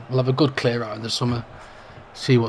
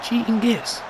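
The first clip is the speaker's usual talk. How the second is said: angry; 9 semitones higher than usual. Real, not acted. Player injured, play goes on.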